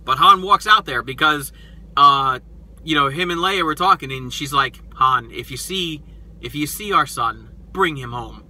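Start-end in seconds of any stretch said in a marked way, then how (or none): 5.0-8.5 tender plea. Retold or imitated. Leia's plea to Han, retold.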